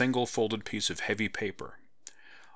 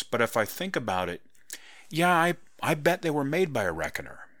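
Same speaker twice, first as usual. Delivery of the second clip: put-on higher-pitched young woman, curious; higher, probing young woman pressing a point; young heroine voice; 5 semitones higher than usual. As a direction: lift the pitch for the heroine, pushing gently.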